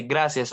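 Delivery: "gracias" with an S for the C; Spanish S sound. Shown as a demonstration. Learner showing tongue position, "gracias" with S sound. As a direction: say "gracias" as grasias. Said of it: "and just say".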